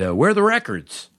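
high mock-innocent question; mock clueless question. A new DJ asking the engineer, mock innocent. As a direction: ask like you've never seen a studio.

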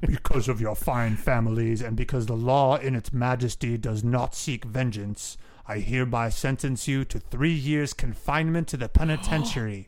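loud, declamatory judge voice; stern judge passing sentence. Acted. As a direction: pronounce it formally to the courtroom.

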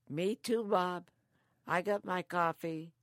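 mock retort. Teasing reply to Bob.

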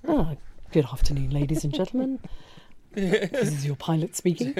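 captain greeting the cabin over the PA; pilot voice. Pretend. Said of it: "you should definitely do a pilot voice".

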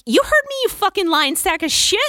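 retold furious cursing at the boss; angry outburst.

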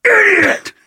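slow, very high mock scream; imitated screaming. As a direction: mimic a screaming skateboarder, drawing out the words. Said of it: "he's also screaming".

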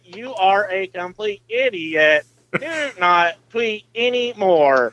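slow, flat machine speech; robot voice. Retold or imitated. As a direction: spell it out like a text-to-speech box. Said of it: "I can hear Dylan now".

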